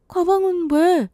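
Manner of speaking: high, drawn-out puzzled question; baffled. Acted. Daughter told by mother to pack at once, baffled. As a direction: ask it slowly and high, bewildered.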